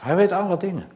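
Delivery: high, loud peak of the sermon; loud proclamation. Acted. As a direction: cry it out to the whole church. Repeated climax, first take loud.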